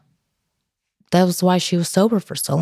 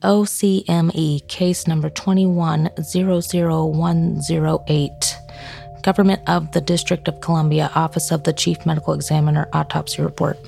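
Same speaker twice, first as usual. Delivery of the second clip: true crime narrator. Acted. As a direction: read the report out evenly and gravely. Reads out the autopsy report.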